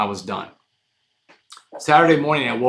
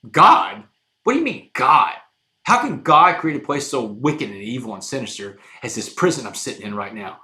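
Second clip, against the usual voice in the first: angry outburst; 5 dB louder than usual. Retold or imitated. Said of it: "I got so mad".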